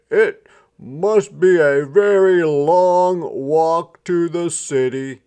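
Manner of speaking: a small country mouse marvelling at the road. A narrator's reading. Country Mouse voiced in story.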